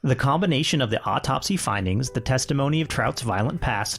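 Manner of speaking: measured true-crime narration; story narration. A narrator's reading. Podcaster telling co-host of the trial, measured narration. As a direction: read it out as a polished account. Reads the written story aloud.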